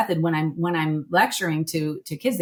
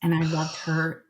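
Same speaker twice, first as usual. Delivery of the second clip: holding back tears; 4 dB quieter than usual. Real, not acted. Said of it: "I am gonna cry".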